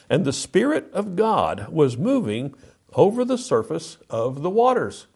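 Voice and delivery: lightly declaimed verse, lifted above conversation; scripture reading. Acted. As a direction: read it out as scripture, strong on the opening. Reads scripture aloud.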